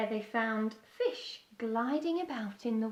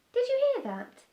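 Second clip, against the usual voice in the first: high, loud and thrilled, a little bird hearing a song; excited; 13 semitones higher, 5 dB louder than usual. A narrator's reading. Beaky hears singing far away, high and excited. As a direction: burst out with sudden excitement. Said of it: "he said excitedly".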